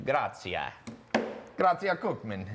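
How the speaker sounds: hammed-up Italian accent; bad exaggerated Italian accent; horrible Italian accent. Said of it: "that was a horrible Italian accent I just did".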